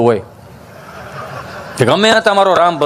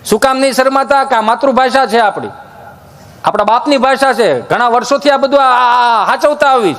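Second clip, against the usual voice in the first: raised-pitch earnest address to the audience; preachy speech; 4 semitones higher than usual. Acted. Storyteller urging listeners to keep Gujarati, preaching. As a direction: preach it to the crowd.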